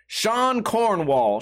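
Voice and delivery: name read very slowly; drawn-out reading. Real, not acted. Host reads a name from the article, slow and drawn out. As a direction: stretch out each part of the name.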